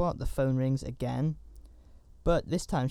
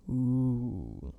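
mock-spooky ooh. Mock-spooky reaction to horror writing.

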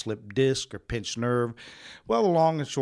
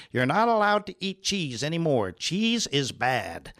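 mock scolding nurse; 3 semitones higher than usual. Nurses lecturing the patient about cheese, mock stern. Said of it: "nurses that were telling me".

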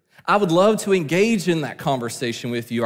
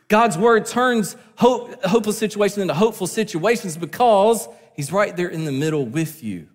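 higher, emphatic pulpit declaration; impassioned preaching; 4 semitones higher than usual. Real, not acted. Preacher assuring the church of hope in God's word, impassioned preaching.

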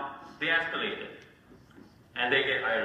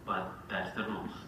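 calm HOA voice; 6 semitones lower, 6 dB quieter than usual. Retold or imitated. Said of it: "they are so calm".

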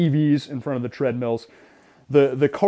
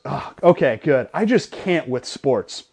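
dismissive woman; slower than usual. Retold or imitated. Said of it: "woman goes".

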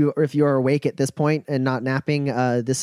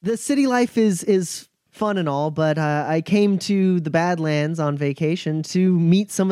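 put-on grinning young woman. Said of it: "She grins at that and goes".

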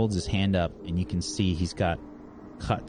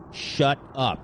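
snapping shut up; 8 semitones higher than usual. Acted. Villain silences her.

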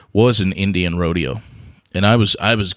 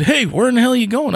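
imitating dad calling out; faster than usual. Dad calling after him.

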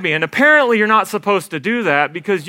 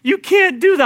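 deafened guide yelling; 11 semitones higher than usual. Retold or imitated. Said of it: "He's like".

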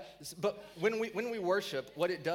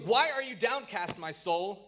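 high, loud, anguished questioning; dramatic psalm reading; 4 semitones higher, 6 dB louder than usual. Shown as a demonstration. Psalmist questioning his downcast soul, loud and dramatic. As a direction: plead with your own soul, raised voice. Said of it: "let me read it with the right tone".

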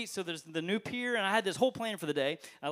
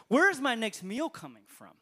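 mild worried widow; 3 semitones higher, 6 dB louder, slower than usual. Retold or imitated. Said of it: "Her thing is".

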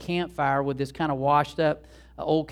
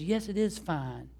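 slow, softer, steady reassurance; measured, quiet contradiction; calm insistence; 2 semitones higher, 5 dB quieter, slower than usual. Retold or imitated. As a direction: act out an owner gently standing firm. Owner calmly insists to trainer.

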